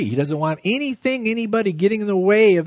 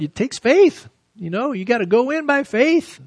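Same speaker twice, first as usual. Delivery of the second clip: fervent exhortation; 7 semitones higher than usual. Real, not acted. Preacher urging faith.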